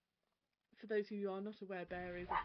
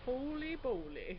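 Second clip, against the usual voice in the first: amazed; 5 semitones higher, 4 dB louder, slower than usual. Real, not acted. Reacting to a beefy ship.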